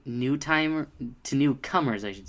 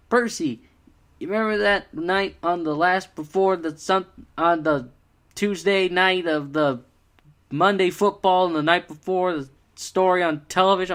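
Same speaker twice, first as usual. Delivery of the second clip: dumb-sounding driver; 4 semitones higher, 4 dB louder than usual. Retold or imitated. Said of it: "you sound so dumb".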